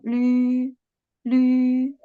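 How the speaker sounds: "Lü" started high and loud, falling sharply; teacher repeats the falling fourth-tone lü. Shown as a demonstration. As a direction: drop "Lü" hard like a command. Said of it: "The fourth tone".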